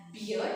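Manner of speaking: "beer" with an ee-uh vowel; common mispronunciation. Shown as a demonstration. Teacher predicts students' error, "beer" with ee-uh. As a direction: bear misread as "beer". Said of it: "will pronounce it as".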